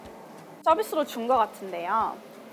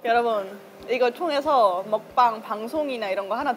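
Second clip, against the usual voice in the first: talking while eating soup. Real, not acted. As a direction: mouth wet from soup. Seen 1: Holds spoon and bowl, sipping soup between and during words.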